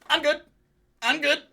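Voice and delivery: high, loud mimicked insistence; hasty reassurance. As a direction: imitate someone popping up after a fall. Imitating her springing up after fall.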